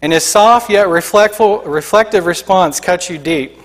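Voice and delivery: dramatic sermon storytelling; vivid story narration. Acted. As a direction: draw the congregation into the vision. Narration continues.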